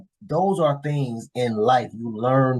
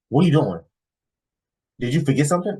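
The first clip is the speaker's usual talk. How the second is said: higher-pitched imitation of a puzzled girlfriend; confused girlfriend; 6 semitones higher, 3 dB louder, faster than usual. Girlfriend questioning the driver's sudden U-turn, mock confused. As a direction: mimic her baffled questioning. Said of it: "looking at me confused".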